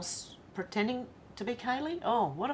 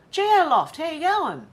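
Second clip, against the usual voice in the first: much higher and louder hello; delighted greeting; 10 semitones higher, 7 dB louder than usual. Real, not acted. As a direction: Geo Loft, hello, up high. Greeting returning viewer.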